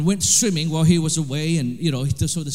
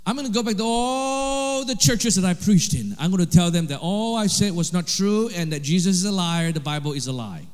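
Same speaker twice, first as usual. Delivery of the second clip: retold daring prayer. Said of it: "He said".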